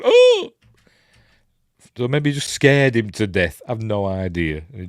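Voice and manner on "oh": a sudden squeaky high yelp of shock. Retold or imitated. Vampire reacting to his own death with a startled high yelp. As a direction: jump way up in pitch for a startled "oh". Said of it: "So he's going".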